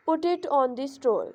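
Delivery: "put it on the stool" slowly falling away. Shown as a demonstration. Teacher showing students falling tone, slow falling instruction. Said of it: "ये falling tone को show कर रहा है".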